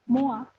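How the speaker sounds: "moi" as "mwa"; French-style "moi", ending on an A; correct French reading. Shown as a demonstration. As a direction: say "moi" with OI turned into "wa". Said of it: "dibacanya jadi wa".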